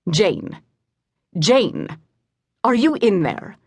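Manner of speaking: calling her name, rising urgency. Acted. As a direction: call out to reach her. Griffin calling to unresponsive Jane.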